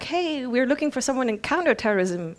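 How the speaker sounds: manager's pitch. Retold or imitated. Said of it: "one of the managers was like".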